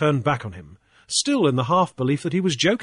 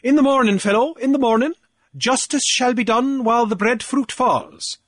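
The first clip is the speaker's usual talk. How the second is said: pompous official, pitched higher, boasting; blustering Cornelius; 8 semitones higher, 3 dB louder than usual. Acted. Cornelius gloating to Grief over the fines, higher and pompous. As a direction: puff up like a petty island official lording it.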